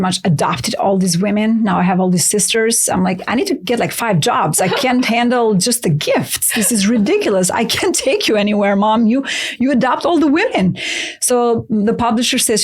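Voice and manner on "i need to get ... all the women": mock exasperated, laughing at mom; playful complaint. Daughter teasing her mom about adopting all the women, mock exasperated. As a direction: tease her, half laughing.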